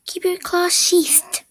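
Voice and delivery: high, drawn-out angry order; angry audition read. Acted.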